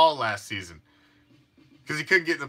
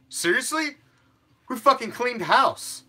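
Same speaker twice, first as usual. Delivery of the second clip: incredulous; 8 semitones higher than usual. Real, not acted. Incredulous rhetorical question.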